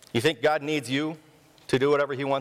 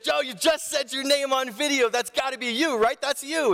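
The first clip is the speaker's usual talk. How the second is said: imitating dad confronting; 11 semitones higher than usual. Dad catching his friend on camera, high mock accusing. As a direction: point it out like a dad catching him.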